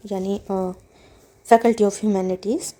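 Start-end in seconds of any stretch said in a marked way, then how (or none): 1.5-2.7 slow rereading. Shown as a demonstration. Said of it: "एक बार दोबारा read कर लेते हैं".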